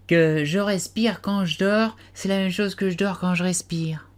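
slow sleepy voice sinking into a whisper; drowsy, half-asleep murmur fading out; talking in his sleep. A narrator's reading. The Dormouse talks in his sleep, slow and whispery. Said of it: "qui semblait-il parler tout en dormant".

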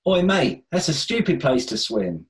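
put-on cheeky Cockney kid, light Cockney accent. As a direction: call out in a quick Cockney accent. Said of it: "chide him in thick Cockney accents".

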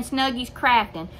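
put-on "Snuggies Crafting" said without Corner, the old shortened name; the name as she used to say it, "Snuggies Crafting"; wrong short name. Shown as a demonstration. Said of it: "I've just been saying".

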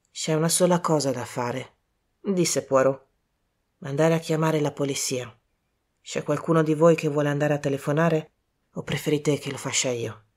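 lightly voiced low, soft detective; composed Poirot, grave. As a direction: speak quietly and gravely, taking charge. Poirot speaks in the story.

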